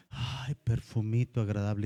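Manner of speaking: sighed, lightly swooning admiration; dreamy swoon. Acted. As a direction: swoon a little over his scent. Woman swooning over handsome man.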